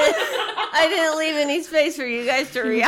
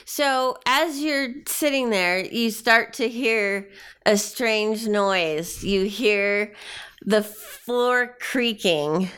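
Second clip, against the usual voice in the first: slow, suspenseful scene setting; game master narration; slower than usual. Acted. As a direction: build the creaking dread slowly.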